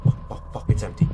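panicked whispered swearing; scared horror game streamer. Real, not acted. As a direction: hiss it out in panic. Panic, pills missing.

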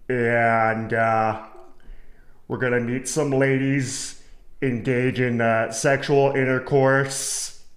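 lightly voiced stiff, formal Kevin, slow in places; a touch of a stiff formal gentleman; mock formal Kevin. Vlogger mocking Kevin's formal plans, stiff and proper. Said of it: "why is he so formal about it".

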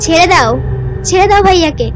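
high pleading shout. Acted. Ghost girl shouts plea.

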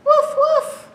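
high loud barking dog. Shown as a demonstration. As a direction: bark like a dog. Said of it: "don't forget to bark".

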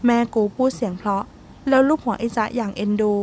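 ordinary delivery

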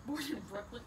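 repeating it through laughter; laughing echo. Real, not acted. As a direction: laugh while echoing the words. Host echoes guest, laughing.

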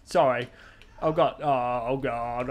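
loud, shocked oh God; loud surprised apology after a misstep; startled yelps. Real, not acted. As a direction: blurt out in real panic. Accidentally punched ally.

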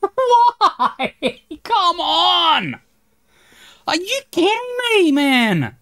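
high, loud outraged cries; furious yelling. Real, not acted. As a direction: yell up at the sky in rage. Gamer furious at repeated death.

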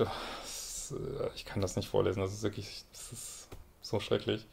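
soft, half-whispered dismay; appalled murmur. Real, not acted. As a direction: recoils from the letter under her breath. Coach too appalled to read on.

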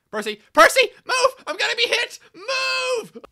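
very high, squealing screams; panicked shriek. Acted. Engine begging Percy to move, panicked shriek. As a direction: shriek for someone to get out of the way.

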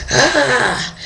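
high mock cry; frantic yelp. Diver frantically signalling companions to turn, frantic yelp.

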